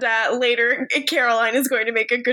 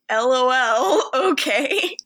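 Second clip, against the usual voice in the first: slow, laughing dismissal; dismissive; slower than usual. Retold or imitated. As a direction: drag out a mocking LOL. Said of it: "And Stefan's like".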